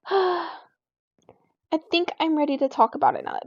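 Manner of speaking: mock a friend's put-upon readiness to talk; sarcastic. Girl mimics her upset friend finally ready to talk, sarcastic. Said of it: "in the most, like, sarcastic way".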